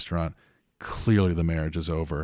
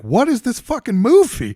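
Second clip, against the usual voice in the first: high, loud disbelieving outburst; stunned outrage; 8 dB louder than usual. Retold or imitated. Viewer yelling at an absurd movie twist, shocked and loud. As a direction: blurt it out like a baffled moviegoer. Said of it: "wouldn't you be like".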